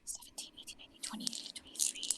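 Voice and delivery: whispered tallying to oneself; barely audible, absorbed mental arithmetic; counting under breath. Real, not acted. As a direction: add it up in a very soft whisper. Adding up dice to themselves.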